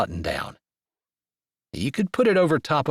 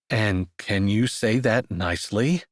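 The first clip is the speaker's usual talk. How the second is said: calmest voice; 3 semitones lower than usual. Acted. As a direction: keep irritation under a calm voice. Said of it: "he asked in the calmest voice he had".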